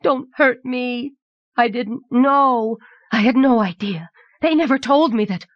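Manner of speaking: put-on high-pitched, pleading young king; frightened wail. A narrator's reading. Young king begs Anagel not to hurt him, wailing. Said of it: "the young king wailed".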